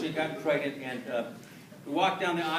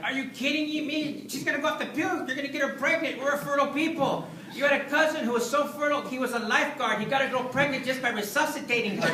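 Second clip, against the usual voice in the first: much higher, louder scolding father voice; dad's voice; 10 semitones higher, 6 dB louder than usual. Retold or imitated. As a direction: hammer the son with alarm like a worried dad. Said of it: "My dad's voice was ringing in my ear".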